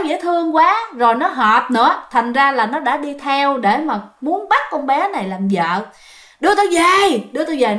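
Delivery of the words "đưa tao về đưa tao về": higher-pitched mock holler; imitated yelling; retold yelling. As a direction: insist like a stubborn spirit, without full force. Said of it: "nó cứ tiếp tục nó la".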